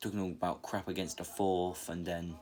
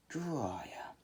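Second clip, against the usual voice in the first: whispered name; 6 semitones higher than usual. Retold or imitated. Tsunade recognizes Jiraiya.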